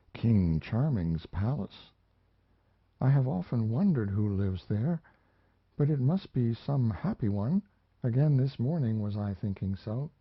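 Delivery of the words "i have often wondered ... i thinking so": put-on a touch higher, dreamy girl; a hint of a lonely dreaming girl; lightly voiced young woman. Mariana speaks to the narrator.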